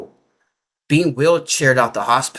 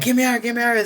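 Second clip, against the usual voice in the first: panicked plea, pitched much higher; freaking out; 10 semitones higher, faster than usual. Retold or imitated. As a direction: beg to escape in a high, frightened voice. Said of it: "I'm freaking out".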